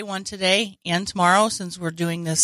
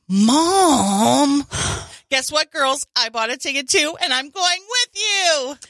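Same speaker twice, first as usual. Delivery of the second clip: higher-pitched playful skit voice; acted mom and daughters; 4 semitones higher than usual. Host acting out a mom crashing the girls' concert, hammed-up. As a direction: play it up as an eager mom.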